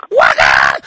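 very deep, booming Waka. Pretend. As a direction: drop the voice to the floor and boom it. Caller voices, silly shout.

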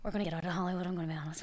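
whispered aside, voiceless; confiding in a whisper. Real, not acted. Confessing in a low aside.

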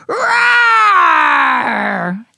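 long loud rising roar; drawn-out playful creature roar; baby dinosaur roar. Acted. Baby dinosaur joins the roaring.

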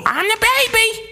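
put-on very high squeaky baby voice; baby dinosaur voice. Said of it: "with the little".

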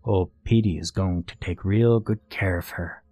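understated gloating threat; taunting villain. Acted. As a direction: taunt him with mock reassurance. Villain taunts Blaine in story.

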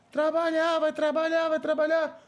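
high, repeated nagging; nagging mother. Retold or imitated. Son mimicking his mother nagging him to work, high. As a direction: mimic mom's nag.

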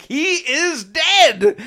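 high, loud insistent cry; mock frantic yell. Yelling to the murder-mystery guests that he's truly dead. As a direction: shout it to convince the room. Proving the body is real.

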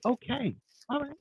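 soft, high-pitched placating okay; calm non-arguing reply. Acted. Man showing how he avoids an argument, softly non-committal. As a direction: brush it off softly, refusing to argue. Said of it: "best part of my argument is not to argue".

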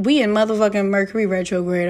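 quick first take. Real, not acted. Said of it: "first quick take".

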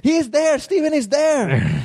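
very high, slow put-on old man call; hammed-up frantic father pointing out; mock shrill old dad; imitating dad yelling. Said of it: "he started to yell at my wife".

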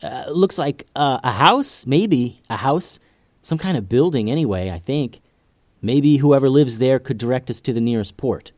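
a lightly voiced ninja girl, unsure; hesitant young ninja girl. Tatiana voiced in the story.

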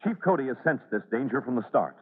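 measured, grave scene-setting narration; radio narration. A narrator's reading. Announcer setting the scene for listeners, grave narration. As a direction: build dread as the floor threatens.

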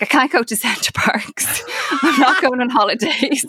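half-whispered, laughing through it; retelling her own misery with a laugh; laughing mock despair. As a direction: giggle the complaint out.

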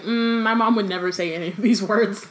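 laughing through a mock-horrified whine; half-laughing, pretend dismay; Ron freaking out. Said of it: "Ron is just freaking out".

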